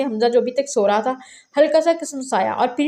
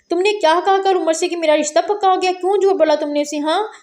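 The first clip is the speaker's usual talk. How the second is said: raised, higher accusing voice; angry; 5 semitones higher than usual. Acted. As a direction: demand an answer, fuming. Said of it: "हरम ने गुस्सा से कहा".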